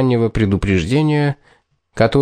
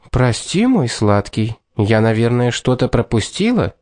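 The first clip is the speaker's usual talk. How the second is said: cooing femme fatale. Acted. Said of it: "проворковала Кэт".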